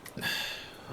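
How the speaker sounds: soft, breathed-out sigh. Acted. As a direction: let out a quiet sigh. Setting down the picnic.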